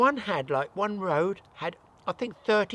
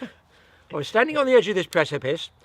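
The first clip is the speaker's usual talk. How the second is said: laughing, louder, can't hold it; giggling through it; 6 dB louder than usual. Shown as a demonstration. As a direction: try the line but keep giggling. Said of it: "Just think T V presenters".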